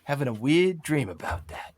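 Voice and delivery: puzzled, half to himself; musing mercenary. Acted. Slackjaw continues musing.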